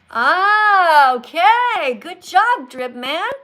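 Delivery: loud, high-pitched burst of praise; delighted realization. Real, not acted. Teacher finally decoding a fan's comment, loudly delighted. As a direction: exclaim it as the puzzle clicks.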